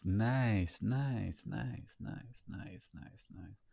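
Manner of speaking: fading to a whisper. Shown as a demonstration. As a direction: let nice die away to nothing. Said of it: "nice fading to silence".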